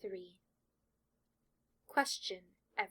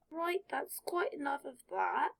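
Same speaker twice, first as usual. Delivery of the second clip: higher, louder, firm and final; brisk sorting hat; 6 semitones higher, 4 dB louder than usual. Acted. Sorting hat ends Draco's musing, firm and brisk. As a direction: wrap it up decisively.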